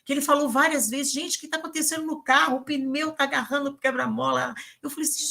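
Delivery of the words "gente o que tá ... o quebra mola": retold fretting in a higher pitch; worried driver. Uber driver repeating himself about the car, mock worried. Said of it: "realmente preocupado com o carro".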